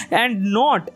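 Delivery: "not" punched, "and" light; stress on not. Shown as a demonstration. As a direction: lean on the word not. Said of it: "নটটাকে আমরা জোরে বলছি". ("not" শব্দে জোর)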